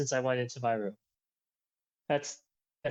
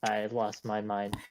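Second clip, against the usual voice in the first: subdued, stumbling admission with false starts; hesitant and broken up by restarts; halting confession. Acted. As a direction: confess haltingly, pausing between attempts. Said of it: "stammers a, a bit before finally saying".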